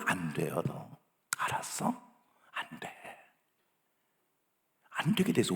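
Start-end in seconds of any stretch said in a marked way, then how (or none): none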